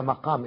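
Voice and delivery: مقام pronounced with "ma", as maqam; fatha on the mim. Shown as a demonstration. Lecturer returns to the first reading for viewers, مقام as maqam. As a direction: give مقام an "a" right after the mim. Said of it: "بفتح الميم".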